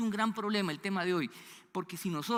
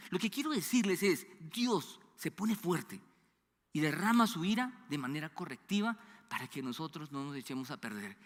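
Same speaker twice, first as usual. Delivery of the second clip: ordinary talk, nothing marked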